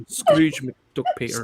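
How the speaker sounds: playful Scottish, T dropped in "Peter"; Scottish accent. Acted. Joining friend's bit, Scottish accent. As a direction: do a Scot saying "Scrooge McDuck". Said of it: "the Scottish don't do the T's".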